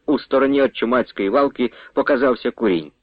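usual speaking voice

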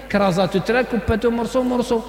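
a hint of a casual young man insisting it is Arabic; lightly voiced offhand slang speaker; mock dialect again. Preacher imitating a man who calls dialect Arabic, lightly voiced. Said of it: "أنا نهضروا بالعربية احنا يا عادي".

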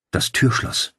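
hushed warning about the door lock; murmured warning. A narrator's reading. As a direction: breathe it so the intruder can't hear. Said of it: "raunte er Claudia zu".

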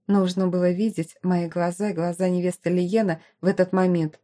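ordinary delivery, nothing marked

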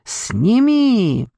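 drawn-out cry with swooping pitch; pained exclamation. A narrator's reading. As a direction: plead as if it burns. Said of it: "воскликнула Морвин".

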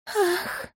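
high soft moan; a breathy high gasp. A narrator's reading. Woman moaning with her lover, high gasp.

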